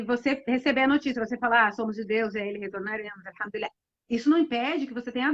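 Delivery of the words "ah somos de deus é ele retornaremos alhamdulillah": softer, calm and resigned acceptance. Retold or imitated. A believer softly accepting news of a death with patience. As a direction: say it gently, accepting the loss.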